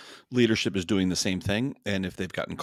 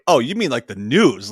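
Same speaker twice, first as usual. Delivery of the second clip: imitating Schultz; 3 semitones higher, 10 dB louder than usual. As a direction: play dumb in a raised voice. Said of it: "Schultz is like".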